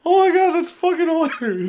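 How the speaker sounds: high, loud, worn out from laughing; laughing delight. Real, not acted. Praising the co-host's comic, laughing delight. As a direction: exclaim it while still cracking up.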